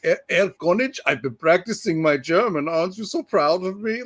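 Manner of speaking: high, eager mock-proud character voice; gleeful impression. Father proudly telling Erkonich about practising German, gleeful impression. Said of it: "having a blast".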